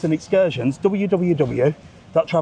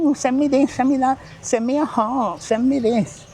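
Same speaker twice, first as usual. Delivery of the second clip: mock begging; 8 semitones higher than usual.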